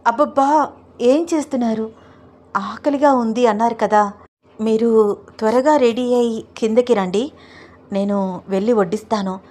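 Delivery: a hint of a bashful wife, pitch lifted; coy young wife. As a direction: push him off with a giggly scold. Narrator voices Roopa, raised.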